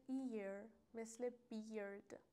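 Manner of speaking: ایر and بیرد drawn out slowly through the "ear" glide; vowel glide demo. Shown as a demonstration.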